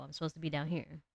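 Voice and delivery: settled down in a low alto register. Shown as a demonstration. Streamer showing her natural alto, pitched low. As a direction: drop gently into your low range. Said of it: "My voice is supposed to be low".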